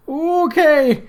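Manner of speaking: high falling ape call; ape hoot. A narrator's reading. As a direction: hoot like an orangutan. Ape's noise.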